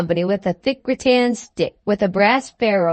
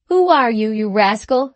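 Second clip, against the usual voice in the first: angry captain. Acted. Captain pokes sleeping man.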